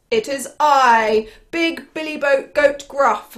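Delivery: slow, lightly voiced grand announcement; big billy goat. Big billy goat to the troll, mildly grand and firm. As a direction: declare yourself with firm weight.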